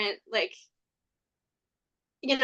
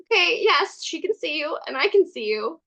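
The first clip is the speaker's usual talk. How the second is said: put-on higher, bright soothing voice for a child; calm, as to a child; 5 semitones higher than usual. Calming an overexcited Fae, lightly raised voice as if to a child. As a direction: humor an excited kid gently. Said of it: "I very calmly".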